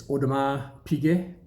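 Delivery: Audemars Piguet with silent S and T, oh-deh-mar pee-gay; French pronunciation. Shown as a demonstration. Correcting brand pronunciation for watch fans. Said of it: "That's how it is".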